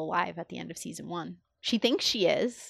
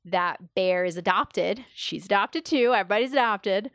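building, amused and louder on "Everybody's"; excited reveal; 4 dB louder than usual. Real, not acted. Friend gushing to co-host about the twist, rising excitement. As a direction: pile it on, delighted at the twist.

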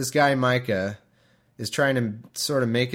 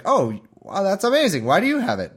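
high, louder, gushing mom voice; mock delighted mother; 8 semitones higher, 5 dB louder than usual. Host mimicking the mother hearing about her money, high and gushing. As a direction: play an overjoyed mother, pitched up. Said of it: "the mom's like".

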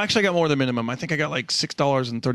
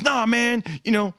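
higher, lightly voiced complaining dad; mock angry father; 8 semitones higher than usual. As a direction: scold the mascot for ignoring his son. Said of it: "yelling, and he goes".

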